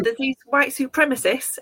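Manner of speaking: lightly put-on southern English accent; terrible southern accent. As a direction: imitate a southerner, badly. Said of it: "that's my terrible sou-, southern accent".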